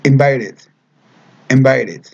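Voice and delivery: invited, clearly modeled; pronunciation demo. Shown as a demonstration. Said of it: "que se escuche como".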